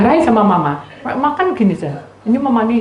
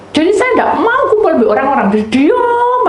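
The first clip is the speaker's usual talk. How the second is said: fast excited telling; 11 semitones higher, 5 dB louder than usual. Real, not acted. Animated self-description.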